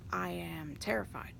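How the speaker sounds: hushed, frightened whisper; scared whisper. Retold or imitated. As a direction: breathe it out as if afraid to be heard. Retelling fear of the boss.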